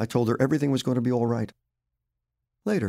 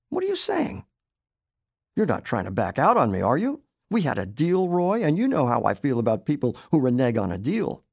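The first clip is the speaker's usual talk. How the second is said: high, loud accusing wife; suspicious wife; 4 semitones higher, 4 dB louder than usual. Acted. Wife accusing husband of backing out, loud and high. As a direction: pin him down, louder and higher.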